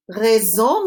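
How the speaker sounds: Raison with a French uvular r and nasal end. Shown as a demonstration. Teacher modelling Raison for students to repeat. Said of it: "Say it after me".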